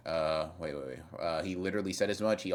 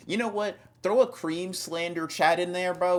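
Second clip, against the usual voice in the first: excited offer; 11 semitones higher, 6 dB louder than usual. Real, not acted. Streamer dangles a promotion before a chatter, excited. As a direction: hype up the viewer.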